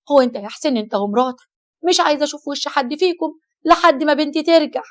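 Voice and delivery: loud, tearful pleading mother. Acted. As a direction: cry it out to Saleh. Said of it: "قالت وهي بتعيط". (أم باكية بصوت عالٍ)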